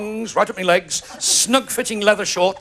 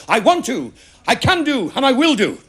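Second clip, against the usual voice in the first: higher-pitched mock shout of resolve; hammed-up determined call; 4 semitones higher than usual. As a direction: declare it like a man bursting in, mildly shouted. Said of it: "burst into his house and shouted".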